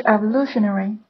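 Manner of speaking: "evolutionary" with the stress on "lu", not the first syllable; word stress. Shown as a demonstration. Teacher shows students where "evolutionary" is stressed. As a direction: say "evolutionary" as e-vo-LU-tion-ary. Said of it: "需要注意这两个单词的重音呢，都不是在一开头".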